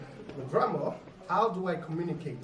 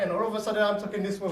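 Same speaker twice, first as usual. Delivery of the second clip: quick, louder, higher voice; fast, raised demo voice; suddenly changed voice; 4 semitones higher, 6 dB louder, faster than usual. Shown as a demonstration. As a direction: jump up in pitch and volume, rattling it off.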